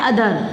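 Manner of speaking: "अदर" with no n before द; missing anusvara. Shown as a demonstration. Teacher showing a word that does not exist, "अदर" without its n sound. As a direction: say "अदर", dropping the nasal. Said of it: "अदर शब्द नहीं होता है".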